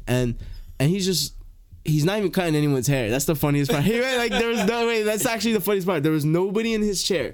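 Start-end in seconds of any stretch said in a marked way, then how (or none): 3.8-7.3 laughing. Real, not acted. Laughing while telling funniest part.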